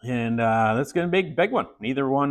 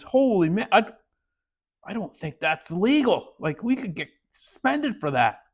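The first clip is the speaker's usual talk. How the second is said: shocked coach; 6 semitones higher than usual. Retold or imitated.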